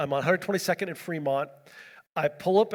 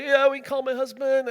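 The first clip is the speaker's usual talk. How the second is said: imitated distraught woman; 8 semitones higher, 3 dB louder than usual. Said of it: "she's just melting down".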